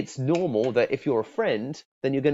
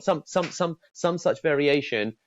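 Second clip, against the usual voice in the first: ordinary talk, nothing marked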